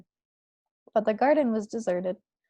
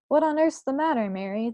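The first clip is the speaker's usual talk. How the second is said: startled question, pitched higher; alarmed queen; 3 semitones higher than usual. Acted. Queen sees her maid go pale, mildly alarmed. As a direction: ask in sudden alarm.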